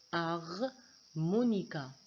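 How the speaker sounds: "Harmonica" said slowly, syllable by syllable, silent H; répété lentement; slow spoken demo. Shown as a demonstration. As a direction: stretch out "Harmonica" for the class. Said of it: "j'ai pas prononcé le H".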